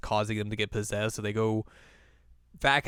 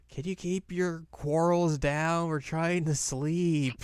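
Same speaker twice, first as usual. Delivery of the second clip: Shippo; 6 semitones higher, slower than usual. Retold or imitated. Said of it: "Shippo's like".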